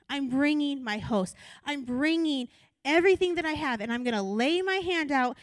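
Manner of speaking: forceful, building declaration; voicing God. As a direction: proclaim it like God Himself. God's words voiced, building forceful.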